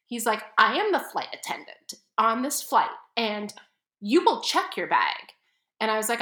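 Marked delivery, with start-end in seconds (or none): 0.6-5.2 pompous flight attendant. Retold or imitated. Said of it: "he was such a prima donna".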